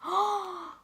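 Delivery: thrilled outburst with a big gasp; very excited. Real, not acted. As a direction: gasp and burst out with delight at the find. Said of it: "I get very excited".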